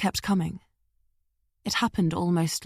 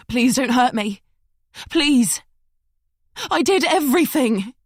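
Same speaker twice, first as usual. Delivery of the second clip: put-on London accent; 5 semitones higher, 4 dB louder than usual. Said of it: "a regular woman with a London accent".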